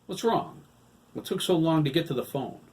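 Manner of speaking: worried. A narrator's reading. Hiram worried on the phone.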